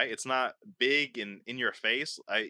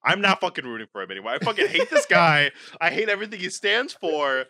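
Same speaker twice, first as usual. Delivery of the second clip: mock sudden hatred; 4 dB louder than usual. Mock turn on his friend.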